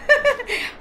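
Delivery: short high-pitched giggle; amused laugh. Real, not acted. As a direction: let out a quick high giggle. Amused by the pet hiding.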